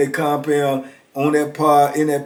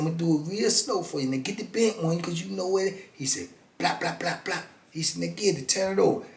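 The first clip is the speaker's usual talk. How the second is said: hustler patter; 11 dB quieter than usual. Retold or imitated.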